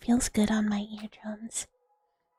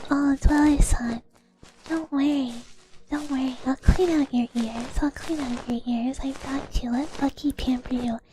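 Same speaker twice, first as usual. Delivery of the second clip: pampering ASMR whisper; 2 semitones higher than usual. Acted. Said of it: "Where it's like".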